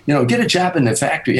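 mock-incredulous, rising in pitch; small-town family scoffing at the comedy dream, incredulous. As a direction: act stunned at the idea. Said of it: "they thought you were insane".

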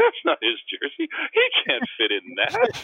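put-on high, slow, blunt child voice; imitating a young girl's blunt verdict; little girl. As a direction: say it like a frank little kid. Friend's young daughter quoted.

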